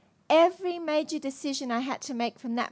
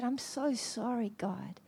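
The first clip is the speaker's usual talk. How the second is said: much softer, slow whisper; whispered apology; 10 dB quieter, slower than usual. Retold or imitated. She apologizes to God in her room, whispered. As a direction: breathe the apology out.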